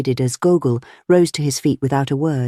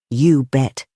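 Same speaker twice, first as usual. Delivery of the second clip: lightly voiced Cockney; clear, commercial Cockney tone; reply with a hint of Cockney; Cockney accent. A narrator's reading. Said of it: "somewhat cockney voice".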